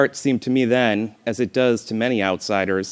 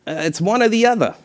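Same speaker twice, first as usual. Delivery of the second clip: higher, nasal impression of the artist; Frank Stella impression; 9 semitones higher than usual. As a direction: mimic a nasal, bored artist. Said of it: "I should do an impression".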